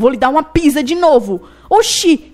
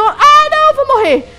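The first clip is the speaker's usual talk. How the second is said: laughing panic; 8 semitones higher, 4 dB louder than usual. Real, not acted. About to die in game.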